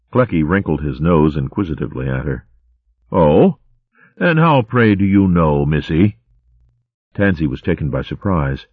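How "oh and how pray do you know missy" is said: a hint of a jolly old-chap hare; lightly voiced posh hare. Clecky chatting to Gerald in the line, cheery. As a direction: bluster like a cheery hare officer.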